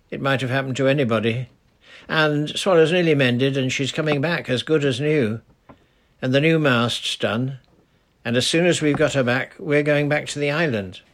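put-on urgent little girl explaining; lightly voiced girl asking for help; young girl Titty.

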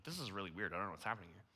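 low, soft aside to oneself; acted inner thought, dropped quiet and low; private puzzlement. Man unsure as crying friend approaches, murmured bewilderment.

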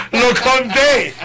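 words stretched slowly through a laugh. Real, not acted. Host laughing while explaining his story.

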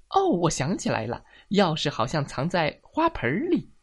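light up as it comes back to you; sudden remembering. Acted.

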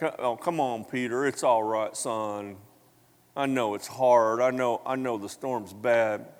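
understated, soothing reassurance; gentle consoling. Acted. Imagined Jesus comforting Peter in the storm, gently reassuring. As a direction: comfort him like a son.

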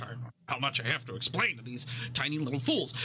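fast, exasperated grumble under her breath; cursing to herself. Acted. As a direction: grumble at the tiny fools, quick and annoyed. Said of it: "kind of curses to herself".

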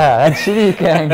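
laughing loudly while agreeing. Real, not acted. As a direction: burst out laughing as you speak.

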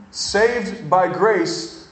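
very slow, every word weighed; preacher's slow repeat; slow emphatic restating. Shown as a demonstration. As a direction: lean on through, slowly. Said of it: "Saved by grace through faith".

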